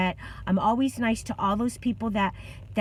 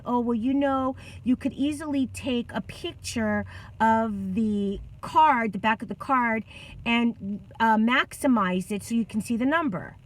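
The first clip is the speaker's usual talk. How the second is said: mild mock attitude. Store worker brushing off a customer's request, with attitude. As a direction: retell her unhelpful reply with some attitude. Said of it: "she gives me an attitude".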